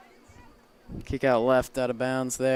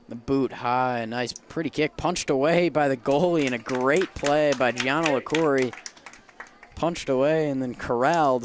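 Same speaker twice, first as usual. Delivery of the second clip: building, louder soccer call; excited play-by-play; 3 semitones higher, 6 dB louder than usual. Real, not acted. Announcer calling a goalie's punched save, excited.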